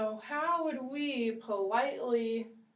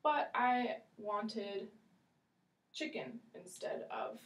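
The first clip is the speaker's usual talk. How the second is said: polite customer; 2 semitones higher than usual. Shown as a demonstration. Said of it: "we could say".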